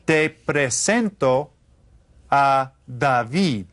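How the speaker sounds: very slow, clear Estoy bien, gracias; slow model answer. Shown as a demonstration. Teacher modelling the answer slowly for repetition. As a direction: spell out each word for the class. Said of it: "Repitan todos".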